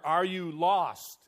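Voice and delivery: loud, slow, pressing question; insistent preacher. Acted. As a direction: push the question hard. Preacher tries again, undaunted.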